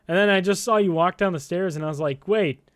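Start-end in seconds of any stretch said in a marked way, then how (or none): 2.3-2.7 high, incredulous double take; slow disbelief rising into a louder no way; retold disbelief. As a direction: act out spotting a friend unexpectedly. Retells spotting Nick unexpectedly.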